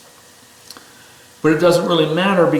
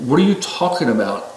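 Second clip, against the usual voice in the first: raised pitch, pleading warning to a friend at a cliff; urgent warning yell; 4 semitones higher than usual. Retold or imitated. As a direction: shout the warning, half-acted. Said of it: "I'm screaming at them".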